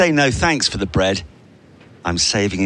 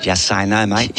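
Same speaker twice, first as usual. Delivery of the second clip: mock Aussie; slower than usual. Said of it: "she doesn't sound like that".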